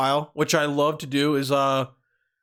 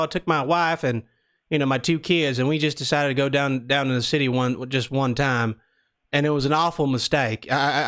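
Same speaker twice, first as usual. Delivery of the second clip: put-on Southern accent. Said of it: "we're doing the Southern accent".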